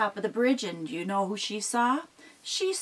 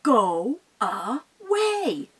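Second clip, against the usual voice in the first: stern troll; 4 semitones higher, much slower than usual. Acted. Mama Troll ordering the goat off the bridge. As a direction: stretch it out to scare him off. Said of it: "Mama looked down".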